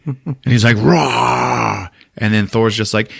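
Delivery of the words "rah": mock Hulk roar. Hulk roars on entering arena.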